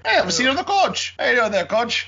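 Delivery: high mock northern Ontario accent, couch and coach sounding the same. Mocking his wife's people in a high northern Ontario accent. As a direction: tease like a small-town northern Ontario local. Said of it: "coach and couch up here are the exact same".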